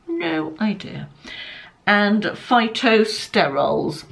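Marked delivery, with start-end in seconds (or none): 0.1-1.1 quiet, slowed "No idea" in low voice; soft, slow repeat. Real, not acted. Shrugging off a strange ingredient to viewers, soft and slow. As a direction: drop "No idea" softly and drawn out. Repeating her baffled aside.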